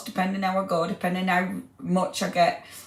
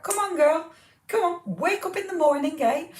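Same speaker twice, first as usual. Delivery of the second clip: higher, cheering herself on; self pep talk; 10 semitones higher than usual. Real, not acted. Host cheering herself on to get up early. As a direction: gee yourself up, playful.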